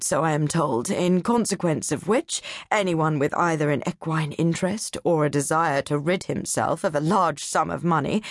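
a hint of a condescending college man; pompous don. Doctor Nichols sneering at the atlas readers, lightly voiced.

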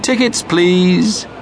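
slow, friendly official voice; friendly inspector. A narrator's reading. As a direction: greet them kindly like a conductor. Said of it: "said a friendly voice".

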